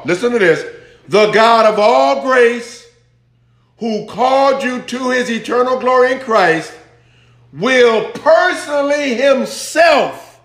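high-pitched, insistent preacher's delivery; emphatic preaching. Real, not acted. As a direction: preach it to the congregation, stretching out the key words. Preaches the verse with force.

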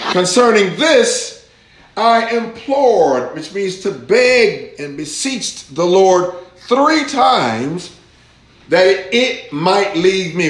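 preacher's pleading scripture reading. Acted. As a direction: draw out the apostle's begging.

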